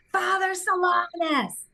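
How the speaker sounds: high, drawn-out exclamation; yelled out. Retold or imitated. Patient sits up on the ultrasound table, yelling out. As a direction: re-enact crying out a name in amazement. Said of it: "and I yelled out".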